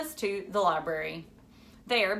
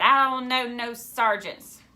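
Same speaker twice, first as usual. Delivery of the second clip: slow, louder, lightly voiced woman on the phone; a gruff stranger who can't be bothered; a hint of a blunt woman on the phone; a woman answering; 4 semitones higher, 6 dB louder, slower than usual. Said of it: "answered by a woman who said".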